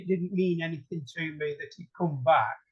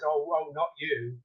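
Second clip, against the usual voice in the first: weary groan; 3 dB quieter than usual. Retold or imitated. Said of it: "he rolls his eyes and he says".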